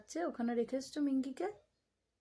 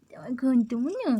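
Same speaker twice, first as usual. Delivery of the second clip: excited cooing; 6 dB louder than usual. Real, not acted. Gushing baby talk to the pet.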